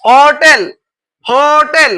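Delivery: হোটেল with a long, held "ho"; হোটেল stretched in two parts, ho then tel; emphatic sounding out. Shown as a demonstration. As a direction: draw out the first syllable of হোটেল firmly. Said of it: "কি উচ্চারণ হচ্ছে ভাইয়া?".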